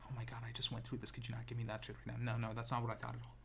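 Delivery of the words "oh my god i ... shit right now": fast, hushed annoyed brush-off; mock irritated whisper; dismissive. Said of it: "it sounds like I'm being really dismissive".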